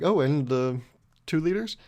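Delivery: mock-surprised question, lifting at the end; acted shock. Customer pretending not to know the pizza deal, acted shock. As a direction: act as if you never knew. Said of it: "I acted shocked".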